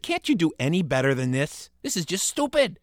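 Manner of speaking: scornful. Acted. Bored boy mocks the ghost.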